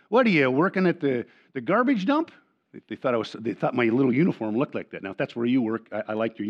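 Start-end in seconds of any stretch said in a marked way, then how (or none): 0.1-2.3 put-on teenagers jeering, pitch climbing high; mocking teens. Pastor quoting teens teasing his new shirt, jeering. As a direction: toss it off like a cheeky teen mocking. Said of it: "they just looked at me and said".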